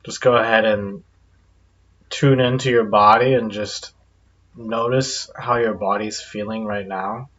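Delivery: calm guided-meditation delivery with long pauses. Acted. Guide leading listeners to relax their bodies, guided meditation. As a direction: ease listeners into relaxing, unhurried pauses between phrases.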